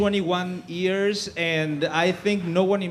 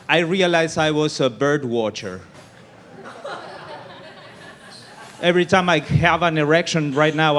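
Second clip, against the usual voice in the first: loud build-up; 6 dB louder than usual. Real, not acted. Comic on stage booming the build-up line loudly. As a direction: push the set-up out loud over the crowd.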